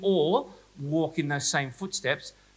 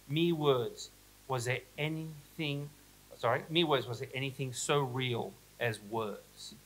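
measured reading of a quote, lingering on the phrases; literary reading aloud. Acted. Reads a Dorian Gray quote aloud.

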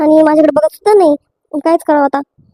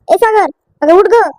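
slow pleading call; 3 semitones higher, slower than usual. Acted. Trying to wake fainted wife.

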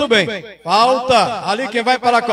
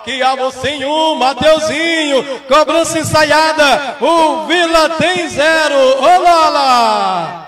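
explosive goal commentary; 5 semitones higher, 5 dB louder than usual. Real, not acted. Goal just scored, live commentary.

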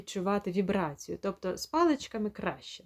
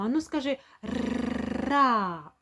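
higher, encouraging prompt; coaxing a child; 4 semitones higher than usual. Retold or imitated. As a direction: invite the child to say ра. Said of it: "Ми кажемо". (лагідне підбадьорення дитини)

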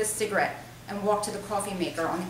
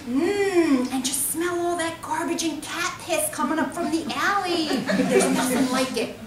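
high-pitched voice; 7 semitones higher, 5 dB louder than usual. Acted. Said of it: "in a high-pitched voice".

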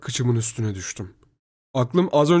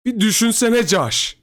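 high, slow, raised plea; pleading; 10 semitones higher, 5 dB louder, slower than usual. A narrator's reading. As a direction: beg him to stop and think. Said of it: "bana yalvarmaya başladı". (tiz sesle yalvararak)

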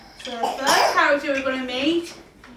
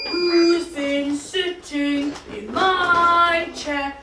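Papa Bear voice; slower than usual. Acted. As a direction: draw it out like a big bear. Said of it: "He speaks like this".

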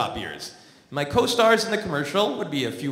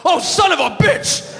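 loud, high-pitched shout, imitating the guy; panicked yell; 11 semitones higher, 7 dB louder than usual. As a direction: yelp it out like a man about to be pounced on. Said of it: "reacted by yelling".

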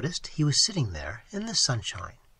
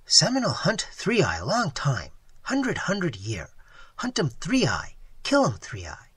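lightly voiced, emphatic broken English; imitated Seminole man; 3 dB louder than usual. Waitress imitates Tigertail telling of the hunt, lightly emphatic. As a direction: lightly act his terse, chanting insistence. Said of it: "even imitating his voice and gestures".

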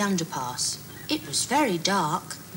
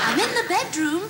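wolf voice; 11 semitones higher than usual. Acted. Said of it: "said a voice".

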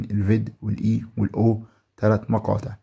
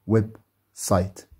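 1 slow joined word; slower than usual. Shown as a demonstration. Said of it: "كلمة على بعضها ويب سايت".

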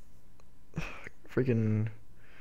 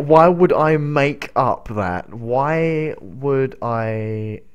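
exasperated; 2 semitones higher, 3 dB louder, much slower than usual. Real, not acted. Exasperated at being called a liar.

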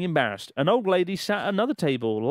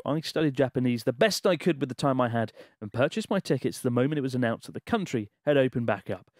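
measured, emphatic letter-reading voice; story read-aloud. Acted. Host reading a listener's Japan travel story aloud, dramatic narration.

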